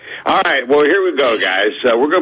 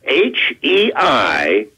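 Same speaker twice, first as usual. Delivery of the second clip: slow spelling out; 3 semitones higher, much slower than usual. Shown as a demonstration. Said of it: "How do you pronounce that word".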